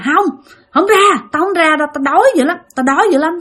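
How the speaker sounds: lightly voiced high demon-child protest; possessed boy refusing. Possessed boy resists the priest, mildly acted high refusal. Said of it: "nó nói rằng".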